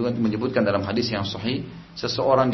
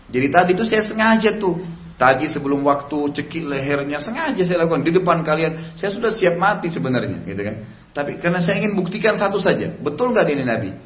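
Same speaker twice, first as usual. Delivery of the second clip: passionate explanation; 5 semitones higher than usual. Retold or imitated. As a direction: pour out the reason with fervour. Rabbi passionately explains his test. (pendeta menjelaskan kepada Umar dengan bersemangat dan suara tinggi)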